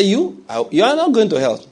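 lightly voiced God; God's voice.

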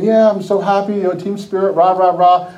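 mild put-on team cheer; mock-cheerful rah-rah; fake cheer. Benched player on the outside, falsely happy. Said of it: "on the outside".

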